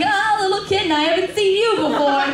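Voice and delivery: high singsong start, easing down; mock cooing. Child spotting a new kitten tail, light high cooing.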